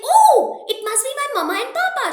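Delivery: high, bright burst of hope, then rushing; hopeful little girl. Acted. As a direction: gasp with hope, words tumbling fast. Child hopes parents are near.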